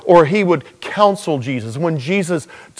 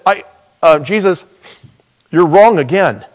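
louder, cocky bragging; boastful Peter; 4 dB louder than usual. Retold or imitated. Preacher voicing Peter boasting over the others, louder. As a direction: puff up and cut in loudly. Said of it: "Peter interrupts and said".

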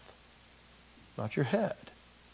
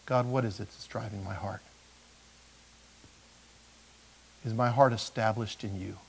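quiet prayer; 4 semitones lower, 8 dB quieter than usual. Pretend. Sample honest prayer to God.

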